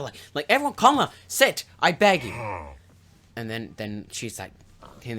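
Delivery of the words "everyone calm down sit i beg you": high, loud acted appeal; urgent plea. Lady Macbeth settling the guests, urgent plea. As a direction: call over a fussing room, mock-urgent.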